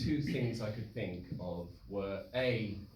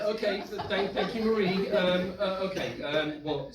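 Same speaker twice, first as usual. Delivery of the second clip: higher, stumbling nervous thanks; flustered stammer; 9 semitones higher, 6 dB louder than usual. Retold or imitated. Rattled and stammering, thanking the crying friend.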